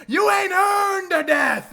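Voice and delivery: high, very loud, drawn-out shout; hammy villain bellow. Acted. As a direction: cry it out like a triumphant film villain. Acting Bill denying a death.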